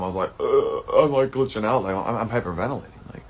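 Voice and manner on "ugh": mock exploding groan. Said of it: "I, like, exploded like a time bomb".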